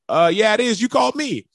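high, baffled "uh, yeah"; puzzled reply. Retold or imitated. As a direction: sound thrown off by the call. Answering a confusing pocket dial.

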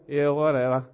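dismissive. Retold or imitated. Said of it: "and I get a".

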